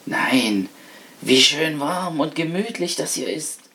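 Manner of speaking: lightly voiced pleased rat. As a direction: savour the warmth as the rat. Rat delights in warm room.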